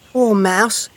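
high, pitying little hedgehog; sympathetic. A narrator's reading. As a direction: feel sorry for a small friend. Hedgehog pities Mouse.

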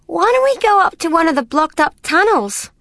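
high, eager suggestion; Ree. A narrator's reading. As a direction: pitch Ree's idea up high and keen.

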